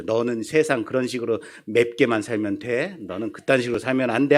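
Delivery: low, soft grumble; grumbling. Retold or imitated. Sulky husband venting at a chili pepper, grumbling to himself. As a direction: grumble under your breath, speeding up. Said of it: "청양고추한테 군시렁군시렁".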